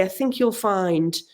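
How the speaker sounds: slow, tactful imitation of a kindly reader; softly understated quoted correction; gentle correction. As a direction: gently point out a mistake. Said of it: "so gentle and say".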